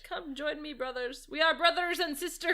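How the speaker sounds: hammed-up villain calling followers; lightly theatrical summons; mock rallying speech. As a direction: proclaim it like a cult leader, imitating.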